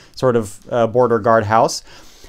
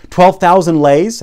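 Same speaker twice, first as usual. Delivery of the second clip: slow, louder, high disbelieving question; incredulous officer; 6 semitones higher, 6 dB louder, slower than usual. Retold or imitated. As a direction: act shocked at the sum.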